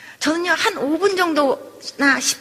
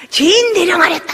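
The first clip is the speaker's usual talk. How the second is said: palace-drama bellow, hammed up; imitated royal shout; 3 semitones higher, 7 dB louder than usual. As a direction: call out like a king in a historical drama. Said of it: "막 소리 지르고선".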